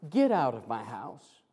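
low, soft order to go; quiet dismissal. Acted. People turn the Lord away, quiet dismissal. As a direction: send them away without raising the voice.

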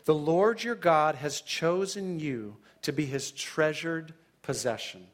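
slow, deliberate reading of the verse; scripture reading. Shown as a demonstration. Preacher reading Deuteronomy to his listeners, slow and deliberate. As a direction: lean into each word of the passage, slowly. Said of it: "Listen to this language".

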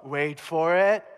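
"Wait for it" stretched very slowly, building suspense; drawn-out suspense. Acted. Pig herder telling buddies to watch, "Wait for it" very slow. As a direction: drag out "Wait for it" like a drumroll. Herder anticipating the demoniacs' charge.

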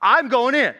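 a fired-up listener who won't stand for it; indignant resolve. Retold or imitated. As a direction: announce you're going in to settle it. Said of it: "I'm saying".

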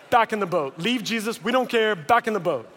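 insistent orders at normal pitch; urgent urging. Acted. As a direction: hurry everyone away in short commands. Apostles urge retreat more urgently.

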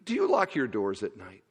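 low-pitched, lightly attempted Indian accent. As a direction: ask it in a mild imitated Indian accent. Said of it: "in an Indian accent".

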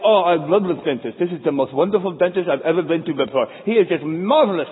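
mildly hammed-up gushing praise; a touch of swooning over the dentist; gushing patient. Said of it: "you're like".

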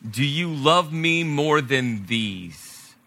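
slow, deliberate asking; measured, searching question; solemn question. Acted. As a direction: draw the question out gently. Jesus' question, acted slowly.

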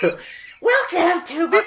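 announcer voice. Pretend. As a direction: stretch it out like a trailer. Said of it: "I'm gonna change your voice".

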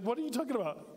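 incredulous. Retold or imitated. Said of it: "It's like".

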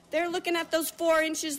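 ordinary delivery

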